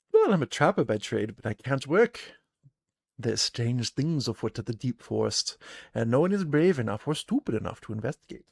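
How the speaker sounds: a gruff huntress greeting travellers; gruff trapper woman. Acted. Trapper Hannah greets the party, gruff and loud.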